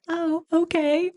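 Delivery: lightly voiced spacey assistant; dopey okay. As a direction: play the oblivious tech. Vet tech slowly complying.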